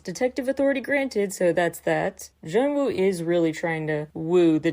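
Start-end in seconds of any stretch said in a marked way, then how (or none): 0.0-1.3 higher, quick imitation of a yell; mock yell. Recapper quoting a detective granting permission, mild mock yell. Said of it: "Yuta just yells".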